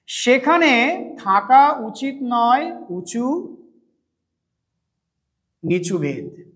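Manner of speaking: slow reading aloud. Shown as a demonstration. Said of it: "একটু ভেঙে ভেঙে লিখি".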